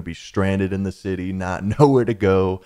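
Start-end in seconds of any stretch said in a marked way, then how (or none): 1.6-2.6 laughing through the words. Real, not acted. Telling viewers about being stranded, laughing. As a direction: let a laugh break into the line. Laughing at his own panic.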